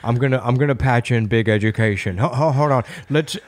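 lightly voiced old German billionaire, a bit low; a hint of a decrepit foreign tycoon on the phone; mild low old-man German voice. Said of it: "he kinda did sound like an old German".

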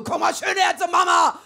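loud mock call. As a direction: yell it out like a hungry mother. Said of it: "Das war mega laut". (laut gerufenes „Komm mal schön her zur Mama!“, lüstern)

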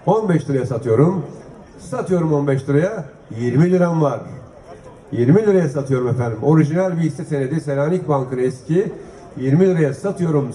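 brisk auction calling, price by price; auctioneer. Acted. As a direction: call out the bids like an auctioneer. S1 runs the auction calls. (mezat sunucusu gibi fiyat çağırma)

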